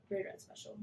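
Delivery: put-on hushed kid whisper; whispered boast. Girls teasing the boys about the mascot, whispered. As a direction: whisper it like a secret brag.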